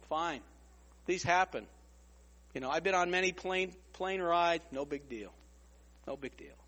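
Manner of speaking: low, soft, unbothered voice; easygoing calm passenger shrugging it off; calm reassurance. Retold or imitated. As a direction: brush it off like a seasoned flyer.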